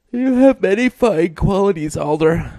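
high drowsy wife; lazily reassuring, high voice; sleepy woman voice. A narrator's reading.

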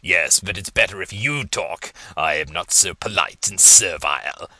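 low rasping voice in his head; guttural voice. Acted. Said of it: "due to the guttural nature of the voice".

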